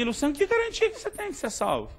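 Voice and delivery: high-pitched retold challenge; imitating an incredulous questioner; challenging question. Retold pastor challenging his certainty.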